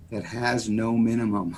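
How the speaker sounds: measured delivery, letting each word land; slow and deliberate. Real, not acted. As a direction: say it slowly for the listeners. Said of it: "so I'll say it slowly".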